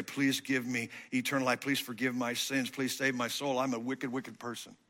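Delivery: whisper-soft plea to God for mercy; quiet prayer. Retold or imitated. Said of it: "I just come to you and say".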